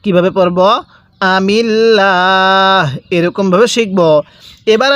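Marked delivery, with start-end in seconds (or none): 1.4-2.9 আমিল্লাহ with a light thin l, slowly; light-lam recitation. Shown as a demonstration. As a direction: keep the lam thin after the i. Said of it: "লামটিকে চিকন করে পড়তে হবে".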